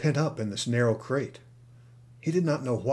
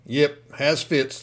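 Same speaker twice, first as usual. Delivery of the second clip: slow, louder drawled excuse; slow offhand lie; 3 semitones higher, 4 dB louder, much slower than usual. Acted. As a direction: toss off the lie slowly. Kidnapper lies to baggageman.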